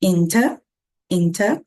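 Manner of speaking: INTER as "in-tuh", R silent; British INTER ending on an open vowel; no R sound. Shown as a demonstration. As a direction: model INTER without the final R. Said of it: "sem som de R".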